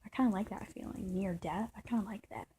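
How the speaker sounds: soft, drifting mock voice, whisper at the end; hushed mock quote. Mocking the idea of liking near death, hushed. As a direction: murmur it like savoring a dark thrill. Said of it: "I was never one to be like".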